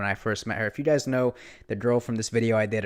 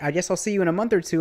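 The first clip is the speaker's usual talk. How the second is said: mock waitress; 7 semitones higher, 4 dB louder, faster than usual. Waitress voiced as he leaves.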